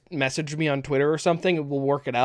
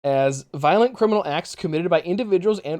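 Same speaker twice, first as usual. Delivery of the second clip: formal reading; 3 dB louder than usual. Real, not acted. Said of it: "I wanna read a definition".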